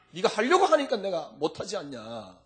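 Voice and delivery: a near-sob at normal level; tearful plea. Acted. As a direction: plead with a catch in the voice. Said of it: "이럴 겁니다, 아마".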